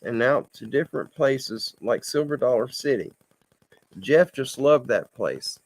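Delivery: reading a written story aloud; read-aloud storytelling with measured phrasing; story narration. A narrator's reading. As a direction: tell it as a homespun story, evenly. Reads submitted story aloud.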